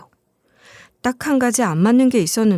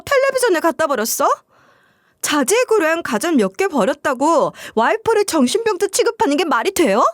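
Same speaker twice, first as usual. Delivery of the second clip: high, indignant protest from the offended wife; 5 semitones higher than usual. Retold or imitated. Wife protests being called sick, indignant and high. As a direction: pitch rising with hurt outrage.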